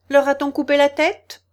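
high, loud demand; shouted. A narrator's reading. Queen questioning her soldiers, shouting. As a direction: cry out the question. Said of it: "cria la reine".

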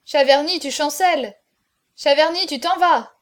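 loud, lifted taunts; crowd heckling. A narrator's reading. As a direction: call out each jibe in turn. Crowd heckles the failing drinker.

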